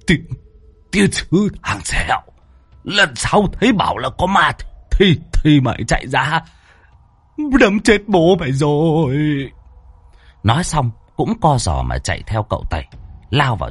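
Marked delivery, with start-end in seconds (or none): 0.1-9.1 put-on higher-pitched old man's angry scolding; snapping. A narrator's reading. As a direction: snap at him, old and fed up. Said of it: "lão gắt". (gắt gỏng giọng ông già cao)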